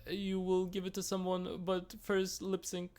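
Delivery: high-pitched mock proclamation; imitated contestant. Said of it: "So the girls are like".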